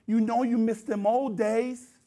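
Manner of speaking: slow, drawn-out mock coaxing; coaxing tempter. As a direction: act out sin luring him back, stretching the words. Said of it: "his sin comes at him and says".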